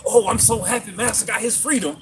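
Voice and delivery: a hint of mock servile delight; happy slave impression. Retelling Fiddler rejoicing over Master's freedom, mock happy slave.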